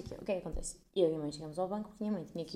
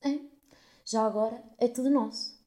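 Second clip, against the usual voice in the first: snide remark; 5 semitones higher, 4 dB louder than usual. Retold or imitated. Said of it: "se vira e diz assim para o ar".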